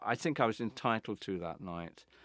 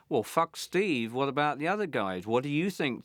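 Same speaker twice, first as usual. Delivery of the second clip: confrontational; 3 semitones higher, 4 dB louder than usual. Retold or imitated. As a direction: square up to him, leaning on "fuck Steve". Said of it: "I was very confrontational".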